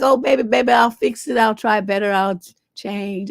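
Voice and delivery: whiny pleading, mockingly imitated; mock begging. Imitating a boyfriend begging to stay, mock pleading. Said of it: "tears and begging and whining and pleading".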